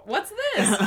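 high squawky duck voice; Donald Duck voice. Retold or imitated. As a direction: quack it out like Donald. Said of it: "Donald's like".

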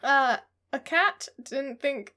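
"a cat" said slowly as one proper name, stressed. Shown as a demonstration. Co-host reading the synopsis, "a cat" as a name. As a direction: pronounce "a cat" like a capitalised name. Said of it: "I'm gonna pronounce it a cat".

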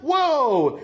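long, high "whoa"; acted amazement. Guest shows his reaction to the screaming woman, acted amazement. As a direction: draw it out high, as retold astonishment.

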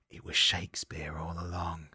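hushed whisper of realisation; stunned whisper. Acted. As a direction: whisper it as the awful truth dawns. Acted shock of film's plot twist.

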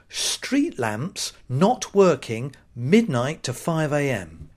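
very slow, deliberate sign reading. Retold or imitated. Reading the motorway sign aloud, slow read-out. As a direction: read it out slowly, phrase by phrase. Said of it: "it says".

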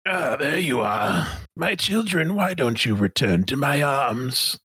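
slow, theatrical villain beckoning followers back; Sun Minister De Winton. Acted. Villain calling the children back to its arms, grandly theatrical. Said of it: "This is a tough voice to do".

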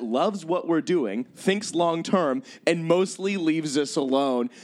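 slow, deliberate ad-copy read; ominous reading. Pretend. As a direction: read it out slow to make it sinister. Reading creepy ad copy slowly.

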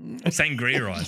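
slow, drawn-out "Sangria eyes"; slow emphatic. Shown as a demonstration. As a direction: savor the words slowly. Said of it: "correcting mojito eyes".

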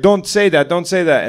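imitating a Nepali comic's pleading, accented; thick Nepali accent. Nepali comic quotes the men threatening him, thick accent. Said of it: "this really thick accent".

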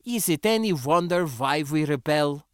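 put-on high-pitched, accented indignation; flushed and angry. A narrator's reading. Sindra justifying rebellion to the spacer, angry. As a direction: argue hotly in a foreign accent. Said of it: "flushed and angry again".

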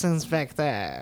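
slow, drawn-out French villain voice; hammy sinister French accent. Acted. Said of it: "this French inspector".

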